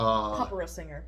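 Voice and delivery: hammed-up Italian lilt on opera singer; mock Italian accent. Cohost announcing the opera singer, mock Italian accent. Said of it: "I did that in an Italian accent".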